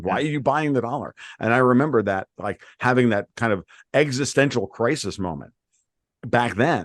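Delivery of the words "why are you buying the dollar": screaming sound, pitched higher. Retelling screaming at a quote screen as gold fell: imitating own screaming. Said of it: "I'm literally screaming at my quote screen going".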